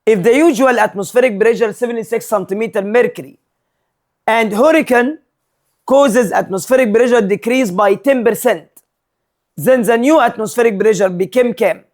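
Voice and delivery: slow, deliberate read of an exam question. Acted. Teacher reads the question slowly to his students. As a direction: spell the problem out slowly for the class.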